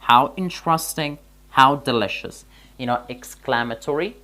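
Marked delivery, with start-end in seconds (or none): 0.1-1.1 "how interesting" louder, higher and slow, like a real exclamation; exclamatory example. Shown as a demonstration. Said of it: "در اینجا گفتیم". 1.6-2.4 "how delicious" said louder, falling; exclamatory example. Shown as a demonstration. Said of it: "در اینجا گفتیم".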